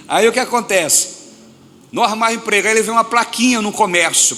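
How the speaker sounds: high, loud preaching build. Real, not acted. Preacher tells the church, high and loud. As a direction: lift the story up to the crowd.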